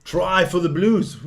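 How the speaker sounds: drawn-out, excited score call; stretched celebratory announcement; excited try call. Real, not acted. Calls a try, team scores.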